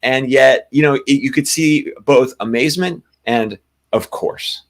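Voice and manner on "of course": "Of course" breathed as a soft knowing whisper. Retold or imitated. Sani realizes it fits, a hushed knowing of course. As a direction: whisper "Of course" like it was always meant to be. Sani's inner reaction voiced.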